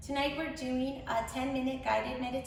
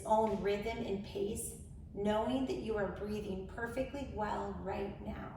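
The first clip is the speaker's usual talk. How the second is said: measured meditation voice with long pauses; guided meditation. Acted. Host leading incarcerated women into grounding, measured guided meditation. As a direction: guide them gently, phrase by phrase.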